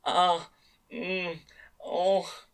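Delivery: high sounds fading to a whisper; needy sounds. A narrator's reading. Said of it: "an irritated sound of both anticipation and need".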